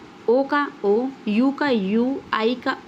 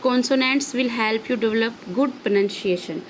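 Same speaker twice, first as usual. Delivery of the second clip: sentence read slowly and clearly for the class; teacher reading a textbook line slowly to pupils; slow read-aloud; much slower than usual. Shown as a demonstration. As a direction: read it word by word, as if dictating. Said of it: "ये क्या बोल रहा है?".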